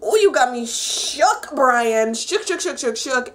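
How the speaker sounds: giddy fangirling. Retold or imitated. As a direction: gush at Brian like a smitten fan. Fangirling at Brian's kiss.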